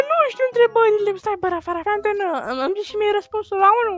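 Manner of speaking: soft, secretive exam-time asking; furtive. Pretend. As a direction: sneak a question to a classmate under your breath. Secretly asks classmate for answer.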